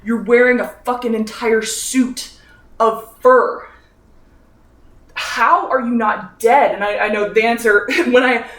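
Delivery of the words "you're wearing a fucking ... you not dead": incredulous. Retold or imitated. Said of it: "'Cause I'm like".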